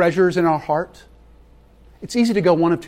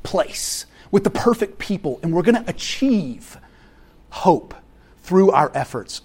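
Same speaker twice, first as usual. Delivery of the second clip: mock grand utopian. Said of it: "This idea".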